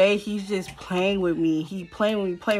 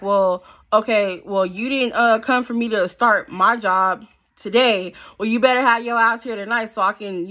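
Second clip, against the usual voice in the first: stern demand; 3 semitones higher, 4 dB louder than usual. Retold or imitated. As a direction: lay down the law, drawing it out. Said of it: "I'm like".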